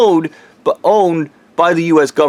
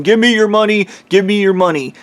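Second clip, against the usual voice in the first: mock screaming; 5 semitones higher than usual. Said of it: "a really loud voice that keeps screaming".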